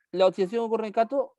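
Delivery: teacher echoing a false statement back in mild disbelief; doubtful question. Shown as a demonstration. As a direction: question the claim as if it's obviously wrong. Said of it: "No, pues".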